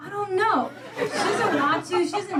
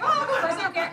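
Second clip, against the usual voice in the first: breezy mock bravado; 5 semitones higher, much faster than usual. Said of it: "Sometimes it's like".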